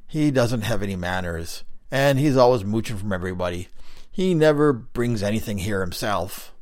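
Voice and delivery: another stone face calling out loudly to a newcomer; a loud call from further down the wall; Greenie calling out. Acted. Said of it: "another voice further down called out".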